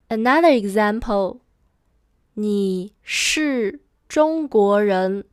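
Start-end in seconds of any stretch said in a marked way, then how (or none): 2.3-5.2 slow, separated words; careful word-by-word teaching pace; slow model sentence. Shown as a demonstration. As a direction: model it slowly for learners. Teacher models new sentence slowly.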